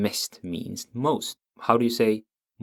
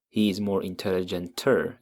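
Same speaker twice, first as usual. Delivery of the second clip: wrong form. Shown as a demonstration. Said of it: "You can't say that".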